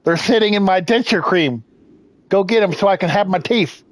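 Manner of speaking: mock grandpa nagging the boy for his teeth; a hint of a creaky old dad; old man voice. Plays a toothless old man.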